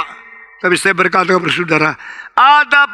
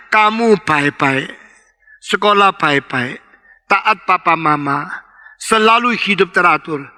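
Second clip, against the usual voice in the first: grandmother's gentle promise; 5 semitones lower than usual. Acted.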